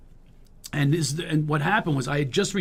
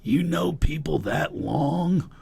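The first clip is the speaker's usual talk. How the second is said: slow, lightly voiced raspy actor; Don Johnson; much slower than usual. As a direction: draw the question out slowly. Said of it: "All of a sudden, he goes".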